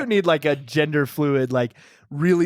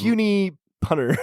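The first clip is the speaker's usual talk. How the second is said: goofy character voice; 4 semitones higher than usual. Acted. Introduces Puny Punter character voice.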